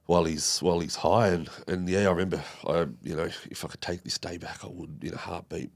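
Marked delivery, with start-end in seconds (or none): 3.5-5.7 whispered, almost no voice; real regretful whisper. Real, not acted. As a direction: let the regret drop to a bare whisper. Regret over the worst day.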